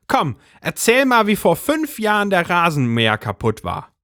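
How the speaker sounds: high agitated housewife voice; Brigitte's voice. A narrator's reading. Brigitte urges husband.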